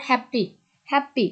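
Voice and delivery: হ্যাপি with "HAP" pushed, "py" just set down; হ্যাপি, front syllable stressed, second one lighter; stress on first syllable. Shown as a demonstration. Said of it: "first হ্যাপের উপর জোর".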